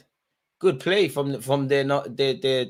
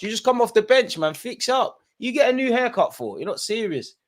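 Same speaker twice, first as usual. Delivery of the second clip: mock telling-off; 10 semitones higher than usual. Real, not acted. Mock telling off a sub player.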